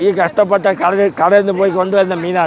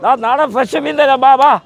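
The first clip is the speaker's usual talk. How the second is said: sharp piercing fish seller; 3 semitones higher than usual. Real, not acted. Fish seller calling to buyers.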